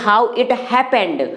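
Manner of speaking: very slow, word by word; drawn-out model sentence; slow teaching demo. Shown as a demonstration. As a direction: lay each word out for learners. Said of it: "हम बोलते हैं".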